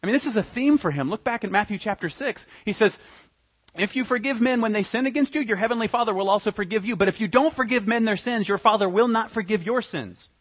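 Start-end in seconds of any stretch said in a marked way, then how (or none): 3.7-10.3 forceful scripture quote. Acted. Quoting Jesus with force.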